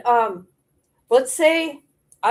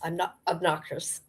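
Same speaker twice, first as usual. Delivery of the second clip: mock quote; 4 semitones lower, 9 dB quieter than usual. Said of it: "Julie D J would say".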